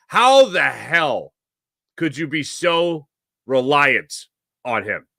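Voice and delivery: drawn-out, disbelieving How the hell; exasperated disbelief. Retold or imitated. Venting to listeners about the manager, slow exasperated disbelief. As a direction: stretch every word out in exasperation.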